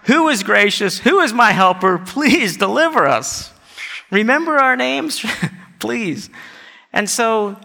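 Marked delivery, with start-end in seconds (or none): 0.0-3.5 earnest, insistent prayer; pleading. Acted. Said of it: "they're pleading". 4.1-6.3 imploring, softening on the last word; higher plea that drops away; pleading. Acted. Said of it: "they're pleading".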